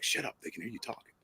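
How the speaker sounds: muttered aside to imaginary voices; pretend crazy. Husband hushing his imaginary voices as guests approach, low muttered aside. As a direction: hush them under your breath, playing crazy. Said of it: "I was crazy, like, dangerous crazy".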